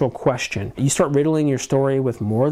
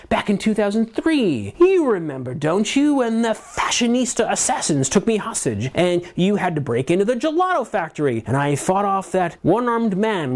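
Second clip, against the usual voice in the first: comic book sidekick; 3 semitones higher than usual. Shown as a demonstration. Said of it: "comic book Super Friends type sloppy way".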